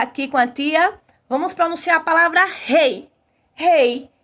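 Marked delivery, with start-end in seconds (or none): 3.5-4.1 "Rei" in a single clear beat; one syllable demo. Shown as a demonstration. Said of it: "eu falo apenas uma sílaba".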